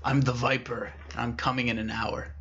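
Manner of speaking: lightly voiced raspy phone menace; hint at a raspy, ominous caller. Mystery caller warning the office worker, lightly raspy. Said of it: "it was a very raspy voice".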